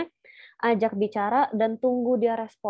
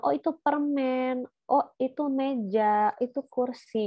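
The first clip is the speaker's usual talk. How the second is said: a little higher, slow naming of objects; labelling for a child; 4 semitones higher than usual. Shown as a demonstration. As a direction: point and name it for the baby. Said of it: "di label gesturnya".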